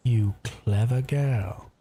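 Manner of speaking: put-on slow, half-hearted Australian accent; a drawn-out, self-admittedly bad Australian accent; weak Australian accent. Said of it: "can't do that dude's Australian accent very well".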